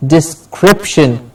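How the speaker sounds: "Description" slowly, weight on CRIP; slow dis-CRIP-shun; stress on CRIP. Shown as a demonstration. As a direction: say "Description" with a strong middle syllable. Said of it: "Crip gets the stress".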